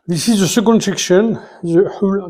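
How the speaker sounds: English with a real French accent. Real, not acted. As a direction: read English as a native French speaker would. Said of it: "on se moque pas de mon accent anglais". (anglais avec l'accent français)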